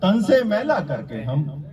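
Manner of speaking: measured declamation with pauses between phrases; mushaira-style verse recitation; poetry recital. Acted. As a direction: recite the couplet to an audience, landing each phrase. Recites ghazal couplets.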